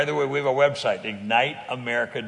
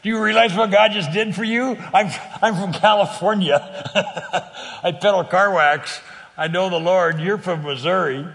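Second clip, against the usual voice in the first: excited; 5 semitones higher, 7 dB louder than usual. Retold or imitated. Laughing, amazed at the coincidence.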